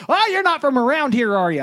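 high, curious local voice. Retold or imitated. Local at gas station asks, curious and high. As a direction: play a nosy friendly local. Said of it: "I'm like".

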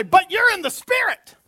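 loud, high-pitched preacher's shout; rousing declaration. Shown as a demonstration. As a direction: call it out for the congregation to echo. Leads congregation in a declaration.

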